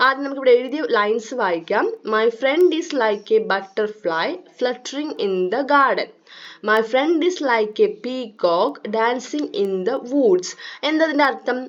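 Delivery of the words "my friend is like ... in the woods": reading the poem very slowly, word by word. Acted. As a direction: read each line slowly for young pupils. Reads poem lines to children.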